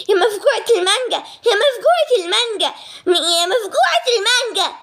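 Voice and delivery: high teasing chant through laughter; laughing tease. Acted. Family teasing the daughter who ate all the mango, giggling. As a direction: needle her, giggling.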